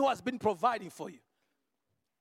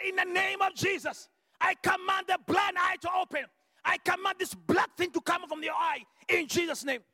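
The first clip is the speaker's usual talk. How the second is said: commanding prayer; 4 semitones higher than usual. Retold or imitated. Commanding healing prayer over blind eye.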